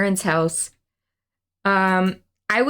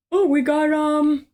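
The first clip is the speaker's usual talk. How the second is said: higher, bright sales pitch; chirpy shopkeeper voice; 6 semitones higher than usual. Retold or imitated. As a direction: gush over every apple item. Imitating apple-themed shop staff.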